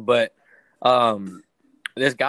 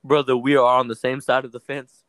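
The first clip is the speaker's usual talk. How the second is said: retold exasperated plea; 11 dB louder than usual. Retold argument with customer.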